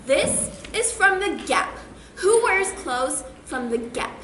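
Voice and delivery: slow, sneering and appalled; snobby disdain. Retold or imitated. Imagined Taylor sneering at clothes from The Gap. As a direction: look down your nose at the clothes. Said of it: "she's probably thinking".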